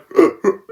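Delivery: high, hammed-up gasp; mock gasp. Beast seeing Raven die, mock gasp. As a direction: gasp in fake shock.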